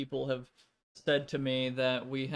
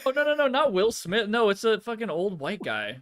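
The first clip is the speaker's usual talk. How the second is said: excited; 7 semitones higher, 4 dB louder than usual. Real, not acted. Correcting a laughing mix-up.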